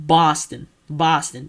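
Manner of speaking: attempted Boston accent. Shown as a demonstration. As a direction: have a tentative go at Boston. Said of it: "I don't know how to do a proper".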